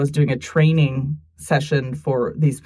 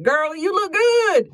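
sassy self-compliment; 13 semitones higher, slower than usual. Retold or imitated. Self pep talk quote.

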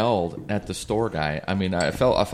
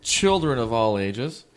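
booming showman opener, slowing down; ringmaster; 6 semitones higher, 5 dB louder than usual. Pretend. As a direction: announce it like a circus ringmaster. Mock circus opening to audience.

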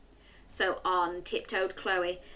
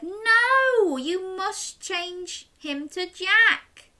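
put-on little girl voice; 10 semitones higher, slower than usual. Chloe stands up to witch.

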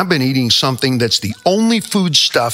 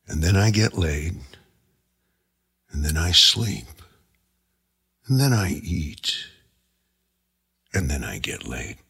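ghostly father; 4 semitones lower, 6 dB quieter than usual. Retold or imitated. Father's voice continues.

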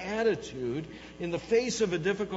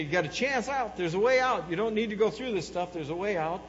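lightly acted, higher, insistent offer; urging governor; 4 semitones higher, 4 dB louder than usual. Roman governor offering Christians a way out, urging. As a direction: press the offer like an official.

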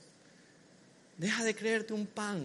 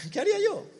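laughing; 11 semitones higher, faster than usual. Real, not acted. Preacher laughs at own question.

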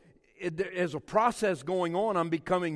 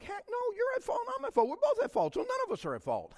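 retold retort; faster than usual. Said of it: "And I'm like".

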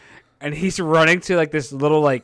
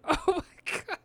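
high, quiet whimpering oh my god; hammed-up despairing whimper; mock horrified wail; 8 dB quieter than usual. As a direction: cry it out in comic horror. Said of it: "He's like".

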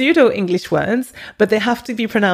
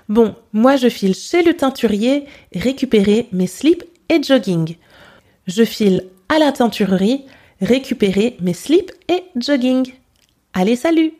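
Franglish words in a strong French accent; "jogging" with a thick French accent; harsh French accent. Shown as a demonstration. Teacher models a French accent for learners to copy. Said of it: "pronounced ... with a very harsh French accent".

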